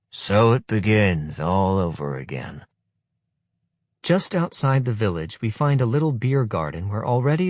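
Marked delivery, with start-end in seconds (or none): 0.1-2.7 sour weary comment; sour remark. Acted. Kozola hearing the chant, sour resignation. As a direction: say it sourly, resigned. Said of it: "says Kozola sourly".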